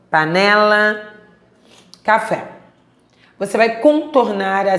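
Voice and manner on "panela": slow whole-word reading of panela; read aloud. Shown as a demonstration. Teacher reading a word list aloud to pupils, slow read-aloud. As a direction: say panela in one stretched, careful piece. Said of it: "Leia as palavras a seguir em voz alta".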